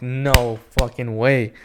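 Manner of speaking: slow, drawn-out incredulity; retold disbelief. Fan learns the marker is dead, slow mock disbelief. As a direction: stretch every word in mild disbelief. Marker fails during the autograph.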